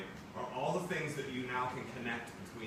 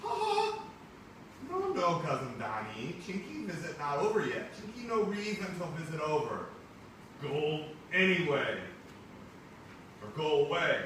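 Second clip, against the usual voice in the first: high, loud cartoonish put-on cousin voice; exaggerated high cousin voice; 9 semitones higher, 9 dB louder than usual. Teacher reading the comic to the class, high cartoonish cousin voice. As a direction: play the visiting cousin big and squeaky.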